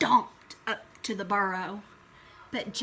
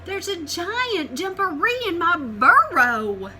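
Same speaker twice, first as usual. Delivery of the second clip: louder, higher, urgent telling; breathless alarm; 6 semitones higher, 9 dB louder than usual. Acted. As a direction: blurt it out in alarm. Rabbit panics to Cat.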